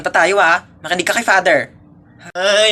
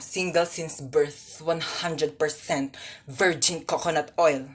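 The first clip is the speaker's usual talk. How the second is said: slow teasing pitch; 6 semitones lower, 11 dB quieter, much slower than usual. Acted.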